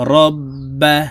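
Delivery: রব্বা with the ব held double, said loudly; doubled letter demo. Shown as a demonstration. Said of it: "তাসদিদওয়ালা হরফকে আরেকবার উচ্চারণ করে পড়তে হবে". (তাসদিদ দিয়ে জোরে রব্বা)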